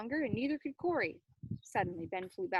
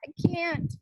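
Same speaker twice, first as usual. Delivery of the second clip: yell; 7 semitones higher, 9 dB louder than usual. Acted. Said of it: "Corey yelled".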